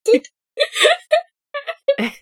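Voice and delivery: laughing through the line, voice cracking up high; breaking into laughter. Real, not acted. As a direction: try to stay in role but crack up. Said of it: "Oh my god".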